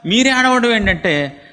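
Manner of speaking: high, loud bewildered plea to God; Samuel pleading. Acted. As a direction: beg him to say why he weeps. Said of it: "సమూయేలు". (సమూయేలు దేవుడిని అడుగుతూ, ఎక్కువ స్వరంతో వేడుకోలు)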